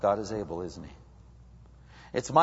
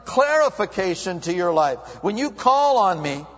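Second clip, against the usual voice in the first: raised, earnest voice of God making a promise; voicing God's promise; 8 semitones higher, 5 dB louder than usual. Preacher voicing God promising clarity. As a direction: proclaim it as God's own words, building. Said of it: "he comes to the third thing".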